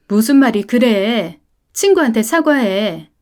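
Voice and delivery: firm scolding command; stern mother. Acted. Mother ordering her son to apologise, firm and stern.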